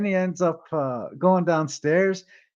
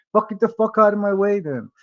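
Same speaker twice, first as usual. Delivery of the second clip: retold irritated outburst, pitched higher; pissed off; 5 semitones higher than usual. Kenny to the man blocking the stairs, pissed off. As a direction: order someone aside, mildly heated. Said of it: "Kenny gets pissed off".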